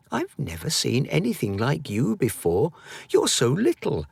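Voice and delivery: high, curious voice; a boy fascinated by something tiny; lightly curious. Acted. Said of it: "said Edwin curiously".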